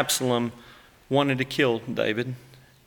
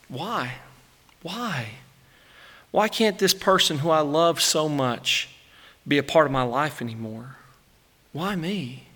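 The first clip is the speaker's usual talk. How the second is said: much softer broken lament; grieving; 3 dB quieter than usual. Acted. David mourning his friend Jonathan, soft grieving why. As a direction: ask it quietly, as if tears are near. Grief over Jonathan's death.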